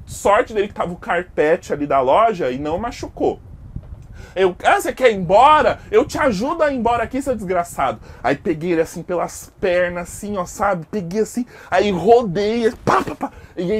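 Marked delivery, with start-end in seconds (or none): 4.6-8.0 loud fast taunt, sneering; mocking angry taunt. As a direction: spit the insult while taunting. Narrator throws customer around. (provocação raivosa e alta)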